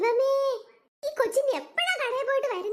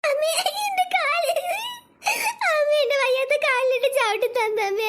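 whiny put-on sob, drawn out; fake crying; 4 semitones higher than usual. Girl fakes crying over her kicked leg. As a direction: wail to win mother's pity. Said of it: "ഈ വർഷ ചേച്ചി അഭിനയിക്കുന്ന".

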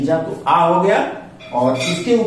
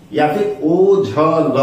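ओ झ ल spelled out slowly, one sound at a time; teacher sounding out ओ झ ल for a child; slow syllable by syllable; much slower than usual. Shown as a demonstration. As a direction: break ओझल into its parts slowly. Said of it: "उसको ओझल बोलते हैं".

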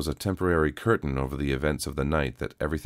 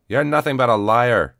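much higher, loud angry shout; 8 semitones higher, 10 dB louder than usual. A narrator's reading. A man in the crowd shouts at the truth-teller. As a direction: bellow the insult at him. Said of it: "shouted a man".

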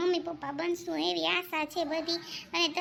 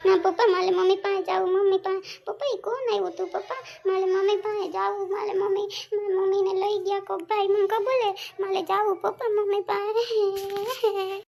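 put-on whiny child; 3 semitones higher, 3 dB louder than usual. Child begging father for mother.

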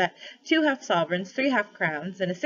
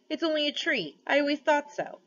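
smug warthog; 9 semitones higher than usual. A narrator's reading. Warthog dismissing fainted man.

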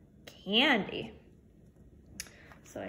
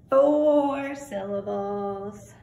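proud announcement; 6 dB louder, much slower than usual. Acted.

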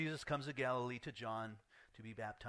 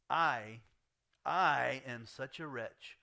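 much louder, slow, heavy self-reproach; anguished cry; 8 dB louder, much slower than usual. Retold or imitated. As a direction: cry it out, full of unworthiness. John confessing unworthiness, retold.

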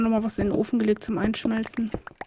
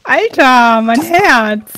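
adrenaline shakes; 12 dB louder, much slower than usual. Real, not acted. Heart racing after fright.

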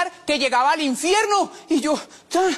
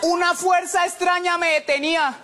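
slow, spooky storyteller voice; dramatic suspense; 4 semitones higher, slower than usual. Acted. Telling the cemetery story, slow spooky narration. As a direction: make it sound like a horror trailer.

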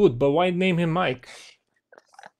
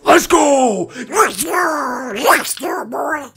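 loud, high, full-throated hype shout; hype yelling; 6 semitones higher, 8 dB louder, much slower than usual. Acted. Hyping up a fan who recognised him, wild yelling. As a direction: yell it wildly to fire them up.

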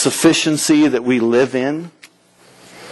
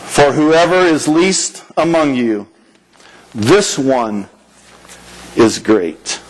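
quoting Jesus; 4 semitones lower, slower than usual. Retold or imitated. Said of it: "these are the last words I say".

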